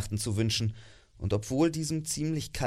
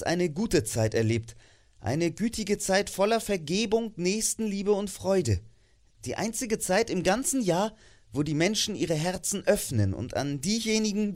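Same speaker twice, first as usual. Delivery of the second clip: put-on earnest young nephew; 4 semitones higher than usual. Nephew defends Christmas to his uncle, warm and sincere. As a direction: speak from the heart, gently.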